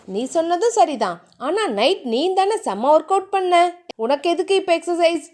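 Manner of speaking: lightly voiced playful husband; a hint of a playful lover; teasing husband Theeran. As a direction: tease her gently as the husband. Male lead Theeran voiced in story.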